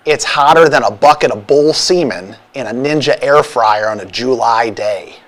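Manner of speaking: hint of a Chicago North Side accent; lightly put-on Chicago accent. Shown as a demonstration. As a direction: read it as a mild Chicago local. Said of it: "How about North Side?".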